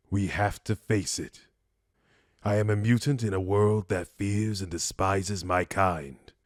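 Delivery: measured, restrained parting speech; noble mutant saying farewell. Acted. Mutant telling a loved one they must part, solemn and restrained. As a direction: let them go gently but firmly.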